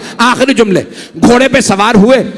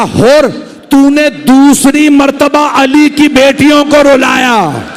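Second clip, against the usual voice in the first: self-reproaching lament; 5 semitones higher, slower than usual. A narrator's reading. Hur beats his head, wailing.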